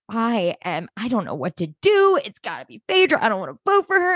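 lightly dramatized crisis of conscience; mock anguished. Co-host imitating a contestant torn over her vote, mock anguished. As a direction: imitate a torn friend, rising into a plea. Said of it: "having a, a crisis of conscience".

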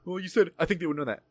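lightly voiced accusation at normal volume; administrator quoting him back. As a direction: report his words back as the administrator. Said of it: "when she said that".

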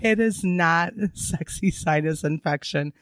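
raspy sick voice; hoarse voice. Real, not acted. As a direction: talk through a sinus infection. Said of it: "sinus infection voice going on".

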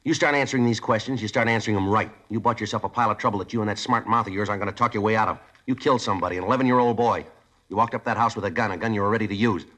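stern anger. Acted. Detective laying down the law to the smart-mouthed boy, stern anger.

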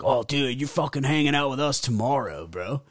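a hint of an eager frat bro; frat guy. Frat guys inviting him out tomorrow, lightly imitated frat bro. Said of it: "frat guys from L S U".

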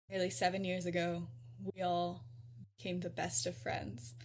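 mock speech in measured, paused phrases; the speaker giving a speech. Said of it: "I do have a speech".

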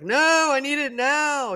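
put-on high, slow, demanding childish id; inner id voice. The inner id demanding money now, high and slow. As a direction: play the greedy inner child who wants it now. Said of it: "the inner id is like".

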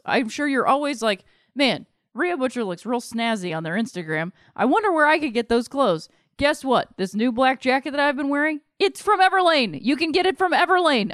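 upbeat sponsor read, lightly sold. Acted. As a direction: sell the clothes brand to listeners. Host reads sponsor ad.

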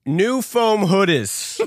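New foam hoodies said slow and careful; slow, deliberate read. Shown as a demonstration. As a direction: stretch each word out. Reading a tricky phrase.

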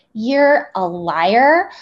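slow, deliberate cold accusation; slow retold accusation. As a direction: spell out each word as a verdict. Retold rage at her firing.

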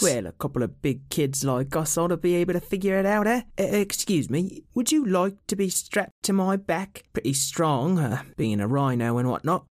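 put-on a gentle young rhino introducing himself; Benoceros the young rhino. Young rhino introduces himself to Zizi, high and shy.

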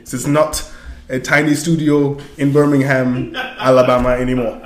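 hammed-up stiff proper speech; lightly put-on formal accent; mock Wakandan voice. Host mocks the movie's Wakandan speech, stiff proper voice. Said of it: "I can't do, I can't do it no more".

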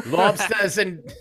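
put-on botched Boston accent sliding into Australian. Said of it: "I just tried to do a Boston accent and I did an Australian accent".

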